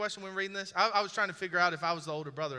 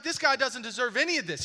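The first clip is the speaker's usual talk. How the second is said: 1 resentful brother; 6 semitones higher, 6 dB louder than usual. Retold or imitated. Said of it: "He's angry".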